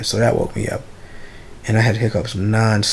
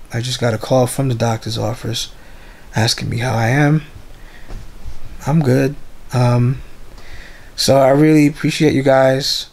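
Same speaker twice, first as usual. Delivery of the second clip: barely any voice, hoarse and weak. Real, not acted. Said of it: "The reason why I sound like this".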